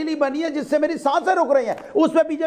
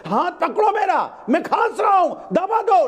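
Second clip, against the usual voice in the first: slow, higher mock plea of a coughing man; mock pleading patient; 5 semitones higher, slower than usual. Panelist mocks BJP by voicing a smog victim: slow, hammed-up pleading. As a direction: ham up a sick man begging for a hand. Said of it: "बेचारा हाथ मांग रहा था".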